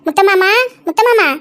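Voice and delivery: drawn-out, slow call of a name. Acted. Flower seller calls the grandmother at her house, calling out. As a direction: call out to announce your arrival.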